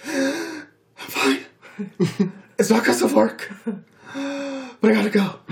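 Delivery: high, tearful laugh breaking through the words; laughing through tears to her manager as she flees; laugh-crying. Retold or imitated. Retelling crying in manager's office.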